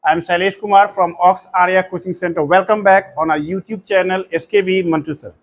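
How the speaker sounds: slow, deliberate YouTube welcome; coaching teacher's measured channel welcome; formal channel intro. Acted. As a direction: greet viewers like a host, very slowly.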